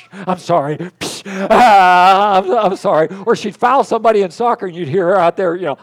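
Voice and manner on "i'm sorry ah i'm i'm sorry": sweet apology. Retold or imitated. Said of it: "she'd apologize".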